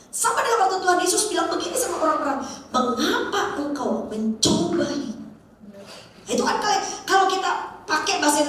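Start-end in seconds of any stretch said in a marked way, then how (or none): 2.7-5.2 slow, even "Mengapa engkau mencobai"; flat reading. Shown as a demonstration. Jesus's question read in Indonesian, flat intonation. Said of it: "intonasinya datar".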